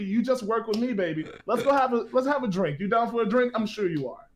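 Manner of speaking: lightly voiced slick hustler pitch; fast-talking hustler. Bard to the noble, a lightly voiced fast-talking pitch. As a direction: rattle off the sales spiel. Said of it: "your fast talking is messing with my head".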